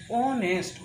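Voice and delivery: "অনেস্ট" with the opening O shown apart; silent H. Shown as a demonstration. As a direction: begin "অনেস্ট" on a held "ও", no H. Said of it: "আমরা উচ্চারণ করি ও থেকে".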